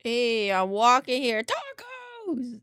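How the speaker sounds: loud, brash hey i'm walking here; imagined New Yorker. Retold or imitated. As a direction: shout like a brash city guy. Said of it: "That's how I imagine that went".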